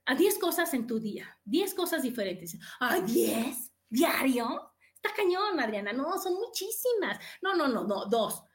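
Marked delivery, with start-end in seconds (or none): 2.8-5.9 complaining. Retold or imitated. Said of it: "Cuando dicen".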